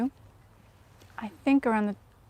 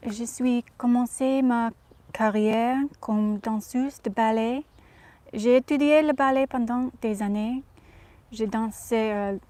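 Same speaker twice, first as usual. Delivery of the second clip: put-on Audrey's French accent. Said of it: "speak in her accent in French".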